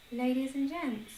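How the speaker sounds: Ladies and gents said through a laugh. Shown as a demonstration. Repeating the new greeting to viewers, laughing. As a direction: try "Ladies and gents" again, giggling.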